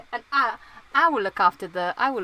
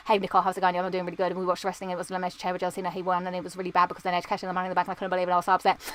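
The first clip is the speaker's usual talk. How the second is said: talking really fast; 3 semitones lower, much faster than usual. Shown as a demonstration. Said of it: "I can talk really fast".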